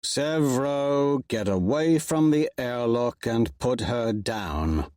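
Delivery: slow, measured command; stern order. Acted. Darrow ordering Severo to drop the girl, slow and stern. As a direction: lay it down slowly like a leader. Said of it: "Darrow orders".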